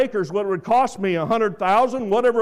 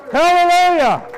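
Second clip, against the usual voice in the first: high, loud exultant cry; shouted hallelujah; 10 semitones higher, 8 dB louder than usual. Real, not acted. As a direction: lift it up in praise. Preacher exclaims at climax.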